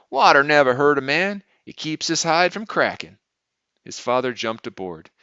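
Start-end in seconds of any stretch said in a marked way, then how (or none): 0.1-3.2 put-on high, loud boy sounding important; self-important. A narrator's reading. Boy answering his tired father, self-important. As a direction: pronounce it importantly, like a boy playing grown man. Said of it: "John said importantly".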